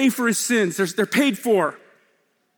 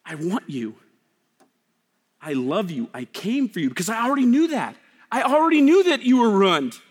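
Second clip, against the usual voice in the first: tender voice of God. Acted. Preacher voicing God reassuring ruined people. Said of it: "now God says".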